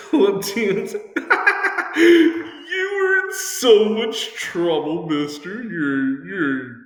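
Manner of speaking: high, drawn-out mock scolding through laughter; laughing while scolding. Mock-angry parent grounding someone, laughing throughout. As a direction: cackle your way through a telling-off. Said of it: "you told me that you're mad, but you're laughing".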